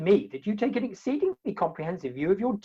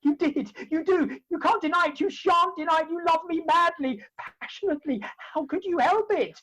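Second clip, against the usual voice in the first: higher, rapid, eager insistence; 5 semitones higher than usual. Acted. Suitor insisting Jenny loves him, eager higher voice. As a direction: press her gleefully to confess.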